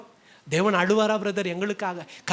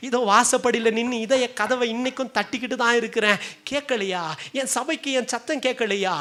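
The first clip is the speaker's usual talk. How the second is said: pleading lament; 2 semitones higher than usual. Acted. Voicing God pleading with distant children.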